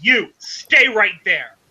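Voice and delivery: slow, firm order; lightly voiced angry guard. Guard he pissed off, slow stern command. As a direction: hold him in place, slowly. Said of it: "looks at you and goes".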